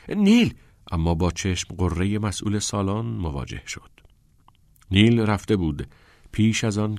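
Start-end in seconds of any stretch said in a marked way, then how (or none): 0.1-0.5 higher, louder call of «نیل!». A narrator's reading. Todd calls after Neil leaving the study hall, loud. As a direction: call after him across the room. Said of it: "تاد صدا زد".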